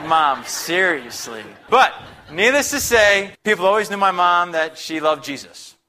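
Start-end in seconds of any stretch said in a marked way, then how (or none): 0.0-1.4 laughing groan. Retold or imitated. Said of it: "It's like".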